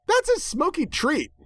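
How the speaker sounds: very high, cheerful pony voice; happy Pinkie. A narrator's reading. Pinkie cheerfully explains the cigarette, high and bright. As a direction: chirp it out happily. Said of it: "Pinkie explained happily".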